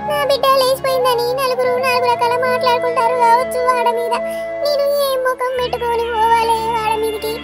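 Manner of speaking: singsong wailing lament; keen for the lost one, stretching line endings; ఏడుపు. Acted. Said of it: "మీ ఏడుపులు road మీద దాకా వినబడతానాయి". (శోకాలు పెడుతూ ఏడుపు)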